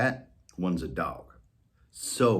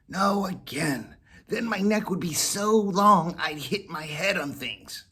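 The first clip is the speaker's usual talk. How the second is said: cat refusing; 8 semitones higher than usual. Acted. Whiskers refusing Molly again, higher cat voice. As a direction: refuse patiently.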